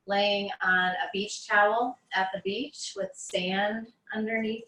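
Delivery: unhurried meditation guide, long pauses between phrases; guided meditation. Acted. Teacher guiding listeners on mats through breath awareness, guided meditation. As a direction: ease them into noticing the breath, phrase by phrase.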